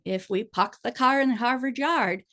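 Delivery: light Boston accent, dropped r's. Shown as a demonstration. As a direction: say it like a Boston local. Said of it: "like a Boston accent".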